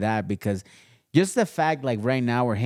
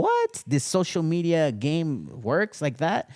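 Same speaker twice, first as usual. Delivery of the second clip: retold shocked "What?" jumping way up high, then slower; mock disbelief; 6 semitones higher, slower than usual. Shoe maker retelling his stunned reaction to the first order, surprised. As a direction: replay the moment the first order arrived. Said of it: "And I was like".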